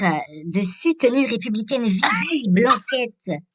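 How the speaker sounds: lightly put-on ditzy teleshopping voice; bimbo voice. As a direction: play a mildly airheaded shopping host. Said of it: "ma voix de pétasse pour, euh, pour faire le promo".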